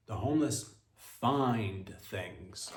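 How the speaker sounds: "find" slow, leaned on; slow down and press on "find"; stress on find. Shown as a demonstration. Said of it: "emphasis on".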